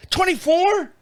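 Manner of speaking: high disbelieving squeak; wife can't believe it's still that much; incredulous. Retold or imitated. Wife questions the new price.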